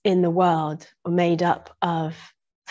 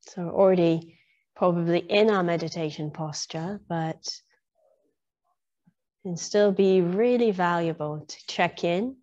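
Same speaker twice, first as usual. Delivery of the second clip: guided meditation. Real, not acted. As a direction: ease listeners gradually into stillness, phrase by phrase. Leads into a meditation.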